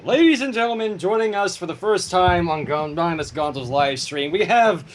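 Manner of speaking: a light showman's announcement to the audience; announcer intro. Acted. Host introducing guest to stream viewers, mock announcer voice. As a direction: introduce her like a host on stage, only half-grand. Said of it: "Allow me".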